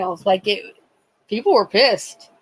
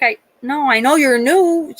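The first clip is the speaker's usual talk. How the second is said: unsuspecting nurse; 6 semitones higher, 4 dB louder than usual. Retold or imitated. Unsuspecting nurse voiced in story.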